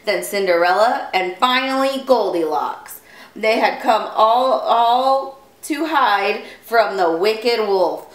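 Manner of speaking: animated storybook reading; story narration. Acted. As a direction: read clearly to young listeners.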